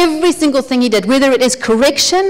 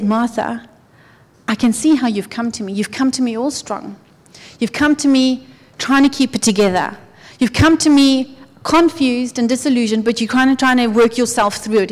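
gentle and kind. Retold or imitated. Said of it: "I honestly believe that he said".

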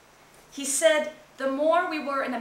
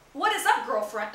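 American accent. Shown as a demonstration. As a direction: try to sound like an American teen. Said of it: "Does that sound American enough?".

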